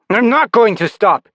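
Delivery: high, loud defiance; bitter refusal. Acted. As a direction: refuse with stress on not.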